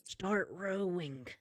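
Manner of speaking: slow, unvoiced whisper; conspiratorial whisper. Fellow prisoner leaning over to the newcomer, urgent secret whisper. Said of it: "leans over to you and says".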